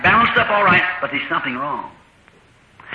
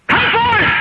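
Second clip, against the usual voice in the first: God's command. Acted. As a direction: call creation into being. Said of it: "He screamed".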